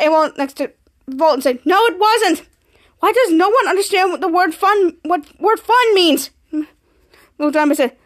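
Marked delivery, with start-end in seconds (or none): 1.6-6.3 higher-pitched retold protest; exasperated. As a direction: complain as if nobody ever gets it. Exasperated at misuse of fun.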